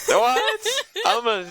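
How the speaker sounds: high indignant outburst. Acted. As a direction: act outraged at the insult. Outraged at disadvantage.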